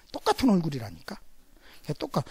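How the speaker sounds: ordinary delivery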